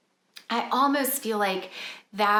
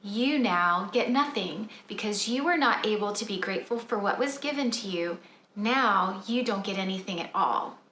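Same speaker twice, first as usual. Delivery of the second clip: gently. Shown as a demonstration. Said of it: "I very gently say".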